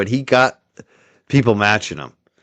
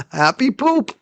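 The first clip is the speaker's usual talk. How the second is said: laughing, higher and slower; amused repeat; 14 semitones higher, slower than usual. Real, not acted. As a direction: savour the silly words with a laugh.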